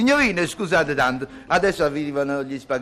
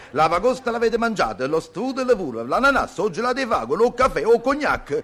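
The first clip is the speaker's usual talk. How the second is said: pleading rising list; 5 semitones higher than usual. Acted. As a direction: pitch climbing item by item. Pleading listing to foreign ladies.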